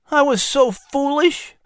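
put-on high, strained tearful boy's voice; tearful groan. A narrator's reading. Injured son groaning to his mother, tearful. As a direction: groan it through tears. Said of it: "He tearfully groaned".

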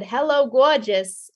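lightly voiced child, slow and showy; little eight-year-old voice. Child addressing an award before classmates and parents, lightly put-on little-kid voice. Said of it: "in my, like, little eight-year-old voice".

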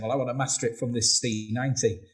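light attempt at a Manchester accent. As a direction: quote him in a slightly put-on Manchester accent. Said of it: "Was that your Manchester accent".

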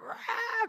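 high-pitched mock baby wail; imitated baby cry. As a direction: wail like a crying baby, half laughing. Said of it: "crying, right?".

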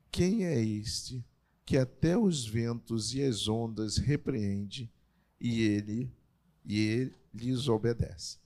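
slow, measured Bible reading with pauses between phrases; scripture reading. Acted. Preacher reading the Gospel storm story to the congregation, measured scripture reading. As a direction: read the passage out slowly, phrase by phrase. Reads the Bible passage aloud.

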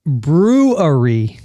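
BREWERY slowly as "broo-uh-ree"; slow, careful brewery; corrected pronunciation. Shown as a demonstration. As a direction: give brewery three clear syllables, slowly.

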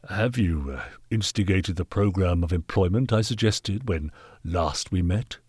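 lightly voiced haughty gentleman; measured, condescending authority; stern knight. Knight questioning the workhouse master, lightly voiced sternness.

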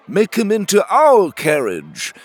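loud, high crowd shout. Acted. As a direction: shout a demand. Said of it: "shouted a group of coggers".

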